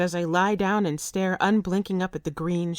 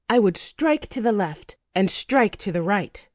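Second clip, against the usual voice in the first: mild shout. Acted. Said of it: "shout back".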